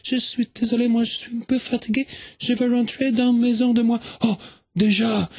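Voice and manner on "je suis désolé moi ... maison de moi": put-on a tourist girl explaining herself in French with a Swedish accent. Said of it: "mais quel joli accent!".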